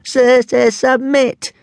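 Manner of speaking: high, loud stuttering wail; moaning dragon. A narrator's reading. Little dragon begs Hiccup to give up, moaning. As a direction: wail it with a stammer. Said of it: "moaned Toothless".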